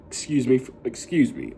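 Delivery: burp breaking through. Real, not acted. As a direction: say it mid-burp. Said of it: "I deeply apologize for burping".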